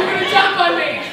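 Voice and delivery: high, loud, terrified cry; panicked shriek; hysterical. Acted. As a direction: cry out as if about to be crushed. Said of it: "I'm hysterical".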